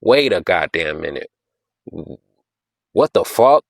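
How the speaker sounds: mock listener floored by a line; stunned reaction. Imitating a floored fan hearing a clever bar, surprised. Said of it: "That's like".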